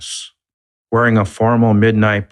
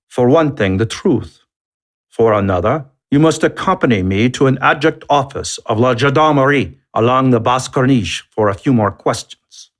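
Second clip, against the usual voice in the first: higher, scolding lieutenant tone; chiding a child; 5 semitones higher than usual. Acted. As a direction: lecture him like a naughty child. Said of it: "As though the lieutenant were chiding an errant child".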